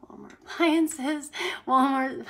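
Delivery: reading out through a laugh; amused, breaking into real laughter mid-phrase; can't get it out without laughing. Real, not acted. Laughs while reading a viewer's comment.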